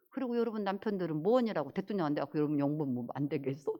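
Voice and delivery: usual speaking voice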